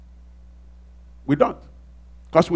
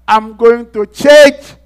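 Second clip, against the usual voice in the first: earnest resolve; 6 semitones higher, 7 dB louder, much slower than usual. Retold or imitated. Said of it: "you decide".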